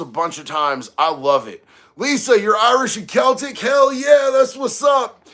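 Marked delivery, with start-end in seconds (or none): 2.0-5.3 high, loud, approving holler; raised, hyped-up approval; excited cheer. Real, not acted. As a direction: whoop it up for a fellow Irish viewer. Cheers viewer's Irish heritage.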